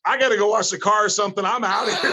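high, rushed, comic excuse; hurried exit line. Retold or imitated. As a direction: blurt it out as if fleeing, amused. Acts out wanting to escape.

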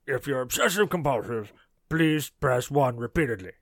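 lightly voiced cartoon villain phone menu; hint of a cartoon character reading menu options; recorded hotline prompt in a mild character voice; Strong Bad. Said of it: "in the strong, bad voice".

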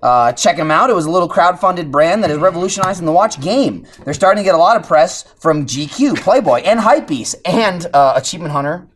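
upbeat podcast ad read, stressing the brand names; sponsor ad read. Real, not acted. Host plugs a crowdfunded watch brand to listeners, ad-read delivery. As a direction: sell it like a host reading sponsor copy.

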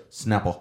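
"Snapper" said as the Louisiana guest says it; imitated pronunciation. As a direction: mimic the guest's way of saying "Snapper". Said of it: "That's how he said".

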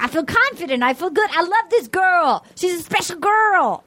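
imitating Tyler. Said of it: "Tyler's like".

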